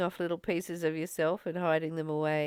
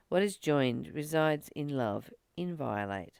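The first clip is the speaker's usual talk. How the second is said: measured, slightly raised recitation of a text; solemn reading; 4 dB louder than usual. Acted. Reading a spiritual passage to viewers, measured and solemn. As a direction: read it out like scripture.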